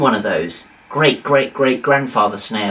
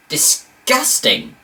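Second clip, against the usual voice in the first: disgusted; 10 semitones higher, much slower than usual. Real, not acted. Reacts to grey teeth.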